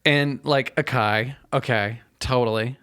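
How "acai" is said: "Akai" with a hard k; mispronounced acai. Retold or imitated. Imitating people misreading a menu word, mispronounced "Akai". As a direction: say "Akai" as a-KAI. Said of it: "when people mispronounce things".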